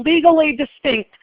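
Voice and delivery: "legally" picked out as the key word; stress on legally. Shown as a demonstration. Teacher explaining the quiz answer, stress on "legally". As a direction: put the emphasis on "legally". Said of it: "the emphasis here is on".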